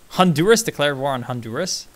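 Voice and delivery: puzzled misread, rising at the end. Real, not acted. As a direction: read it wrong and wonder. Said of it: "Oh no, Nicaragua".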